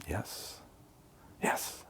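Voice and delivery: breathless unvoiced whisper of yes over and over; whispered yeses. Shown as a demonstration. Priming himself before replying, whispering yes. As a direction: whisper yes to yourself, barely audible. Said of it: "I'll just say to myself".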